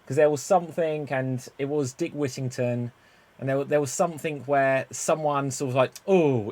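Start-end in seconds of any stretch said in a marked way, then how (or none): 6.1-6.5 mild heckler's boo, drawn out; imitated audience jeer. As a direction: jeer lightly from the stalls. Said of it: "in the audience like that".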